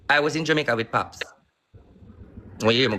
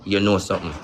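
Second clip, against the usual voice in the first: low, knowing muttered realisation; knowing aside; 6 semitones lower than usual. Retold or imitated. Telling himself he caught Pops lying, low knowing tone. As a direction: say it low, as if it just clicked. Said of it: "I say to myself, say".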